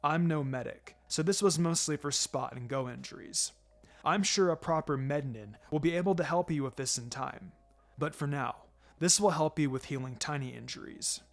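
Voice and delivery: a lightly voiced, steady teacher reassuring his pupil; understated sensei, gentle but firm; calm mentor. Kakashi explains technique.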